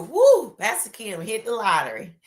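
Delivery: loud excited whoo; excited gossip. Pretend. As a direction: hype up the rumor. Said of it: "And to it to be true".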